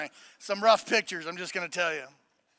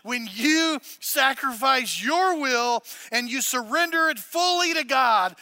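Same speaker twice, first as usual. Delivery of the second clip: slow dictation; 7 semitones higher, 9 dB louder, slower than usual. Shown as a demonstration. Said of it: "Write it down under why".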